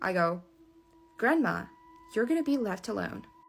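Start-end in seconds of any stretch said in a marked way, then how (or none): 1.2-3.2 put-on flat, blank, dead-serious tone. Retelling a blank-faced warning once given to grandma: retelling a dead-serious blank tone. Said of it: "I drop my face in the middle of conversation".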